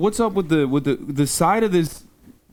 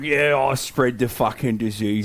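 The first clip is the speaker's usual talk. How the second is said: lower, grumbling frog voice; a lazy frog who doesn't care; grumpy frog voice; 4 semitones lower than usual. Retold or imitated. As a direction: slightly lower mock grump of a sleepy frog. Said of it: "with Hassan's Georgie voice".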